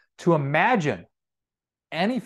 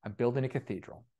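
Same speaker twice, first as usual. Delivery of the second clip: contented; 8 dB quieter than usual. Acted. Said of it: "with this gleam in his eye".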